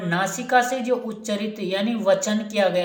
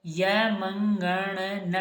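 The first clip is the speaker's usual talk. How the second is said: slow dictation; much slower than usual. Shown as a demonstration. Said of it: "यमंगनानाम नासिका च".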